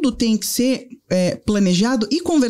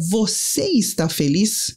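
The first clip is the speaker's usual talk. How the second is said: slow tender question; much slower than usual. Retold or imitated. Son's question retold again.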